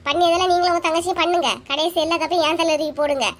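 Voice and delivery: mildly irritated, hurried retort; quarrelsome. Acted. Wife accuses husband and his sister, quarrelsome. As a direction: throw the blame back at them, a touch heated. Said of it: "என்கிட்ட சண்டை போட்டுட்டு போறா".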